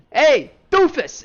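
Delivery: high, loud, slow taunt; taunting call. Acted. Sable taunts the giant from the corner, loud and slow. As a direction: drag out the insult to provoke him. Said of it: "peek around the corner and go".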